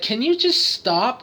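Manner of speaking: a touch of mock fed-up pleading; imitated exasperated wife. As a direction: imitate mild exasperation, stretching the words. Acts his exasperated wife.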